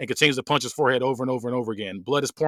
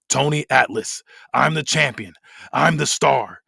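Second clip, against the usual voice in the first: lightly acted wrestler's promo, deliberate and emphatic; measured, dramatic villain promo with weighted pauses; Tony Atlas. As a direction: deliver a defiant monologue justifying yourself.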